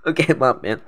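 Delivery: recovering right after a coughing fit; choking on a drink. Real, not acted. (suara habis tersedak)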